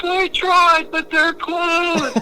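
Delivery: very high, slow whimpering imitation; whiny lost friend. Lost drunk friend whining that the cops were closed, very high and slow. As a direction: stretch it out high and pathetic.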